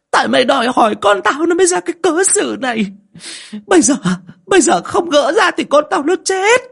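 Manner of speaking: very high, loud, crying rage; mother-in-law screaming blame at her daughter-in-law; furious tearful outburst. Acted. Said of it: "ngón tay chỉ vào mặt con dâu mà rít".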